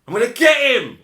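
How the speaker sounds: high, loud vengeful shout; acted-out furious outburst; tearful fury. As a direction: yell it like someone wound up to bursting. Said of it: "He had tears in his eyes".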